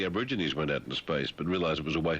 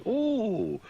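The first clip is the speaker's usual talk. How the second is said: mock gasp of delight. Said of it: "you find rude words".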